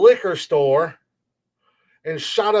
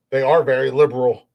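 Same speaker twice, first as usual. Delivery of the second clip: laughing. Real, not acted. Laughs at own remark.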